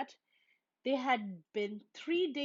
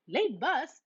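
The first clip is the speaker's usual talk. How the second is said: higher, louder cut-in; surprised interruption; 6 semitones higher, 6 dB louder than usual. A narrator's reading. Mama interrupting Brother at breakfast, surprised. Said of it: "interrupted Mama".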